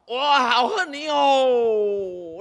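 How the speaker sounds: demo shout. Shown as a demonstration. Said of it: "吼，你甲喊".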